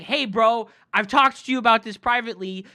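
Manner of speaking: loud, fast angry scolding; losing it at a chat troll; retold blow-up. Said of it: "I crashed out".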